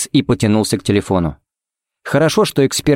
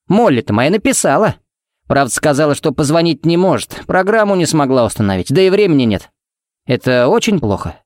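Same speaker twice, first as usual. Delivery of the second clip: light, higher-pitched chatty voice; chatty happy father; 6 semitones higher than usual. Acted. Pharmacist telling the sheriff his daughter wrote, chatty and pleased. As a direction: share good news, voice lifted.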